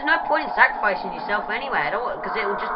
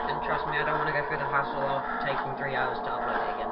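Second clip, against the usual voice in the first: whispering; 10 semitones lower, 9 dB quieter, faster than usual. Real, not acted. Aside whispered to viewers.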